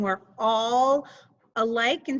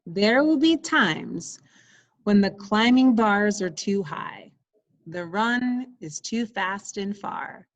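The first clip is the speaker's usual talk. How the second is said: story reading; 3 semitones lower than usual. Acted. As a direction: read each line to the class. Teacher reads picture book aloud.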